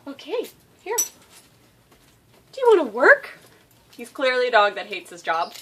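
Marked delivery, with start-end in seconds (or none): 0.1-3.4 high, loud excited dog talk. Real, not acted. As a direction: pump up your dog to work. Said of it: "annoying high-pitched baby voice".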